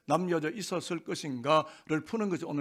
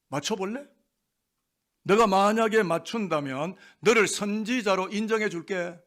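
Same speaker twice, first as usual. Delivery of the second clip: mild mock taunt. Soldiers toying with the slapped prisoner, mildly taunting. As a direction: toss it out as a half-playful challenge. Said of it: "툭툭 내뱉는 말이".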